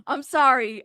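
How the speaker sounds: amused, laugh breaking in before the words; laughing apology. Real, not acted. Reader apologizing for laughing at the lawsuit, amused. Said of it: "I'm, like, laughing".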